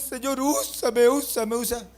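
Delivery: high, slow, mocking begging; mocking plea. Preacher laughing at youths, slow mocking plea. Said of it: "yo me río con los jóvenes".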